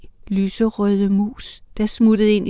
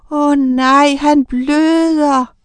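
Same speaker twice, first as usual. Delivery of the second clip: higher and a little louder, shocked; alarmed cry; 6 semitones higher, 3 dB louder, much slower than usual. A narrator's reading. Anne-Sophie crying out in alarm at the blood. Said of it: "råbte Anne-Sophie".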